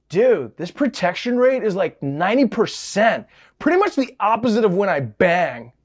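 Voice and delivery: lightly voiced frat bro. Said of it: "if he had the voice of a frat bro".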